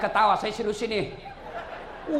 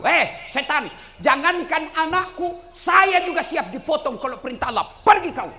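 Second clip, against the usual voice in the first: raised, high acted defiance; defiant rebuke; 9 semitones higher, 6 dB louder than usual. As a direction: build to a loud dismissal of the devil. Hajar defies Satan in story. (hardikan menantang dengan suara tinggi)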